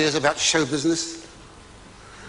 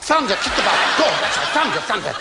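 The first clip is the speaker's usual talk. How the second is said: urging on; 6 semitones higher than usual. Retold or imitated. Husband urging his bride to splash the bath, hammed-up cheering. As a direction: egg her on to lash the waves. Husband directing thunder effects.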